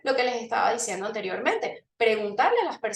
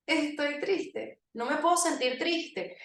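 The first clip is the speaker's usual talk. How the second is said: retold sad line; 3 semitones higher, 5 dB quieter than usual. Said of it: "cuando hice así y dije".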